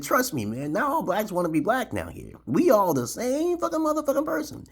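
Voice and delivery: high, loud, building to a yelp; hammed-up pleading. Winning over the drunk gunmen, high and rising to a yelp. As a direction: win the gunmen over, getting worked up.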